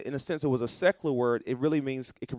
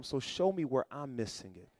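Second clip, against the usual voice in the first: soft prayer; 2 semitones lower, 7 dB quieter than usual. Shown as a demonstration. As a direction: murmur the plea to the Lord. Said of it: "prayer quoted, then repeated".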